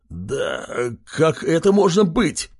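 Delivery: slow, puzzled pig voice; can't believe he's losing; bewildered. Acted. Kogu wonders why he is losing, bewildered. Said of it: "недоумевал тот".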